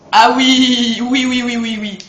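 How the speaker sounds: loud, eager string of yeses; excited yes. Real, not acted. Gamer spotting a familiar room, loud and eager. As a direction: pump up the recognition.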